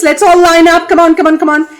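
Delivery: rally the others to line up; eager calling out. Acted. Alligator calls others eagerly.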